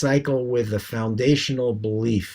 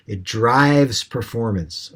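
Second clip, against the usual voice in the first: slow and clear; slower than usual. Shown as a demonstration. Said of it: "I didn't understand 'cause of your accent".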